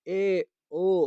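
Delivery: slow drawn-out call, half-hearted. Shown as a demonstration. Teacher demonstrating to students how one calls someone, slow mock call. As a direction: stretch the call out slowly as if hailing someone. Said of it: "یا آپ کسی کو پکار رہے ہیں".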